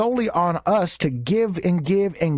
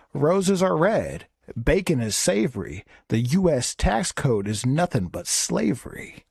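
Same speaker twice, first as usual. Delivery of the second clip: rhyming poem. Acted. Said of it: "Little Doctor Seuss for you guys".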